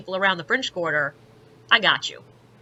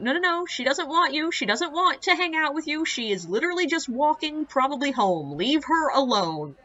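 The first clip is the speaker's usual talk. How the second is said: lightly acted pleading, pitched higher; sober friend intervening; 6 semitones higher than usual. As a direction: imitate someone talking a drunk friend down. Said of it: "the other girl, guy was going".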